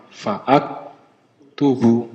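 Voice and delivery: "Fa'ak tubu" with a glottal catch before ak; "Fa'ak tubu" in separated pieces, the second a sounded; hamzah qata' sounded. Shown as a demonstration. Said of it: "kalau ini hamzah qata'".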